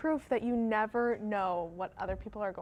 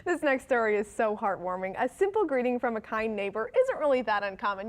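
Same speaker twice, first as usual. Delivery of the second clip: friendly anchor introducing a story; news read. Acted. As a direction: lead viewers into a feel-good report.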